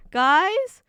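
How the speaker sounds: loud, high alarmed calling; mock-panicked shouts for attention; Honey. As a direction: call out urgently across a distance. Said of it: "you can just hear Honey go".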